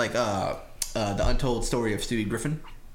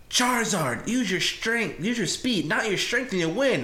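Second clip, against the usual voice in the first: imitating Ash; 8 semitones higher, slower than usual. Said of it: "It's like".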